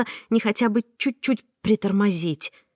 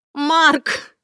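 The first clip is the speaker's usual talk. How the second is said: much higher desperate call of his name; cry out; 8 semitones higher, 4 dB louder than usual. Acted. Frightened heroine cries out to Mark, desperate call. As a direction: call out to him in despair. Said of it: "закричала я".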